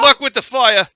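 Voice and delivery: loud high frog voice. Acted. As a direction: squeak it out like a frog. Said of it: "I'm gonna do frog voice".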